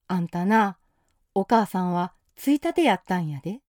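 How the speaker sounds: understated stern warning from the teacher; mildly strict, firm reminder. Acted. Teacher firmly tells Toshiko her duty, mildly stern. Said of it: "きつい口調で言われました".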